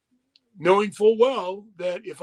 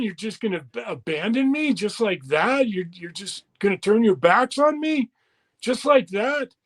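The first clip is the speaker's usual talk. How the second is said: hurt disbelief. Retold or imitated. Retold protest at being dropped.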